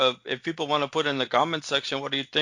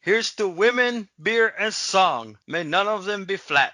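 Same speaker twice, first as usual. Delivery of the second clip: raising a toast; slower than usual. Shown as a demonstration. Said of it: "you wanna do the toast".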